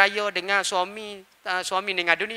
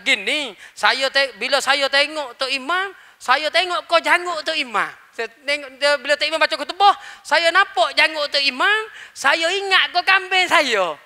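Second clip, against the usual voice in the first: a villager confessing, pitched higher; lightly put-on higher voice of a simple villager; 5 semitones higher than usual. The villager tells the imam why he cried, pitched higher. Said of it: "Dia kata".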